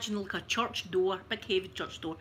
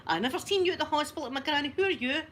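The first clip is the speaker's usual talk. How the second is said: higher-pitched, challenging mock indignation; defensive; 5 semitones higher than usual. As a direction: act out defensively taking on the onlookers. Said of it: "I started to get defensive".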